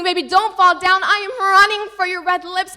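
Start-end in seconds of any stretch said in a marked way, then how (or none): 0.0-1.0 mock scream. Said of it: "and I'm screaming".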